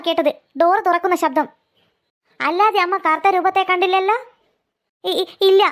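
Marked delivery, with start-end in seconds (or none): 5.0-5.6 stuttering a flustered no; nervous stammer. Acted. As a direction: trip over the word ഇല്ല. Grandmother caught out, stammers.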